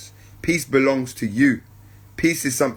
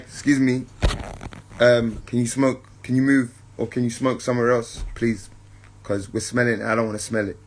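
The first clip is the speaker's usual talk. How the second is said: soft, courteous ask, trailing quieter; polite gentle request; 4 semitones lower, 4 dB quieter than usual. Retold or imitated. Asking a smoker politely to move elsewhere, gentle and courteous. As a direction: ask kindly so he hears your genuine heart. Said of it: "in a way where that person can receive my genuine heart".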